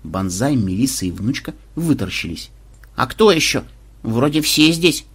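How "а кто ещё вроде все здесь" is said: unsure who could be left; a touch of confused babble; bewildered. Acted. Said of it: "растерянно пролепетала Внучка".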